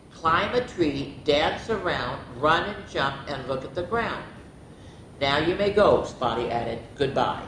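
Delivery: lively picture-book reading; expressive bedtime-story narrator; story read-aloud. A narrator's reading. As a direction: read it to children, voicing each animal lightly.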